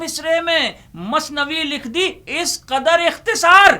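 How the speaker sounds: lifted, ringing verse ending; high loud recital. Acted. Repeat recitation, climax.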